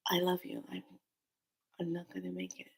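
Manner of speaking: faint, whispered, barely voiced; dying last words. Son dying of a heart attack to his family, faint whisper.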